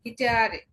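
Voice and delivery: "গিটারে" as gi-TAA-reh, final "eh" sounded; German pronunciation. Shown as a demonstration. Teacher repeating the German example, German pronunciation. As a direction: say "গিটারে" with a long middle "aa". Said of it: "ডয়েসে গিটারে".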